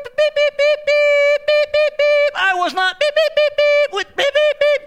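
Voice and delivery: high, loud censor beeps; comic bleep sounds; bleeped-out cursing. Pretend. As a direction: beep over the swearing like a TV censor. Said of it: "Says he swore".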